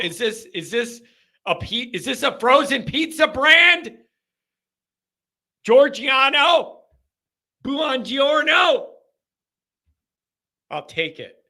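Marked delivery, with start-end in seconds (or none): 5.6-8.9 exaggerated fake Italian hello; mock Italian. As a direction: ham up the Italian like a tourist. Hamming up Italian greeting.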